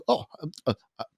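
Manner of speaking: lightly voiced Southern boy, halting; impression of guest. Host imitating his guest on a Snapchat call, halting Southern impression. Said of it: "That's your impression of me?".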